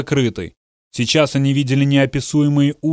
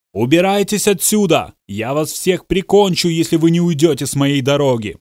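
higher, frantic threat; panicked threat; 3 semitones higher than usual. Acted. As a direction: lash out in fear.

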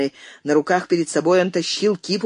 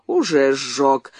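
нетерпеливо; 2 semitones lower, much slower than usual. Acted. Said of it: "нетерпеливо сказал Кэнси".

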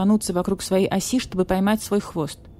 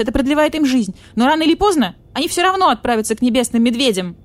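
put-on higher, louder worried young voice; anxious young cat-badger; 6 semitones higher, 6 dB louder than usual. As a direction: play the nervous junior detective.

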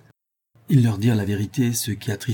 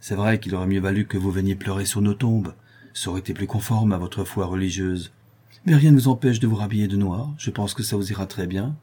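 mocking. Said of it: "persifla Anicet".

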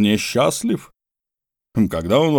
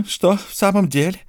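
higher, surprised question; Mordecai asking; 9 semitones higher than usual. A narrator's reading. Mordecai asks George in surprise, higher voice. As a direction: ask it back, pitched up. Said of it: "спросил Мордехай".

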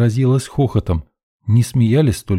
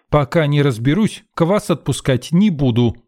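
curt refusal; 7 semitones higher than usual. A narrator's reading. Saleswoman refusing to serve kvass, firm and curt. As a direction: lay down the rule, no arguing. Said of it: "отрезала работница торговли".

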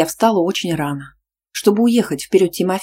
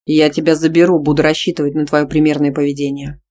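firm, louder male voice; stern boyfriend; 5 dB louder than usual. Acted. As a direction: lay down the rule calmly but firmly. Boyfriend sets terms.

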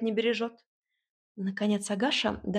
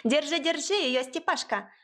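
higher, excited urgent shout; agitated cry; 6 semitones higher than usual. A narrator's reading. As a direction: shout at the boy to hold it. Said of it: "ажиотированно вскричала Агаша".

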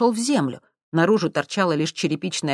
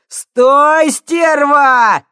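very loud, much higher; yelling; 11 semitones higher, 12 dB louder, much slower than usual. A narrator's reading. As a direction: scream at the runaway. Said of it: "вопил уголовник". (вопить громко)

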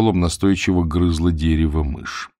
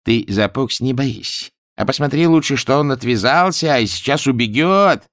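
gloating; 5 semitones higher than usual. A narrator's reading. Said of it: "злорадно усмехнулся".

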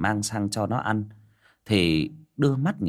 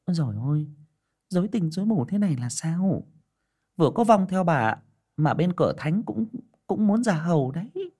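put-on higher, fussy old shaman woman; a higher mystic old woman voice; fortune teller; 9 semitones higher than usual. A narrator's reading. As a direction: marvel at the omens like a village seer. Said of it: "bà nói".

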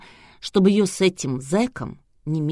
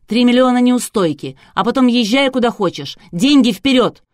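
much higher, much louder shouted demand; yelling back; 6 semitones higher, 9 dB louder than usual. A narrator's reading. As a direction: yell the penalty in her face. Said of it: "юрист с Анастасией тоже вопить умели".

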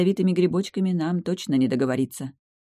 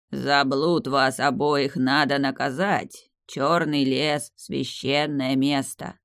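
put-on slow, grave judging old tree; lightly voiced solemn ancient tree; stern tree voice; slower than usual. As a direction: pronounce the sentence slowly. Tree passes stern judgment.

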